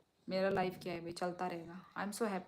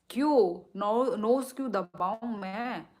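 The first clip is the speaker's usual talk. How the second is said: surprised protest; 2 semitones higher, 8 dB louder than usual. Real, not acted. Viewer asks her to press nose.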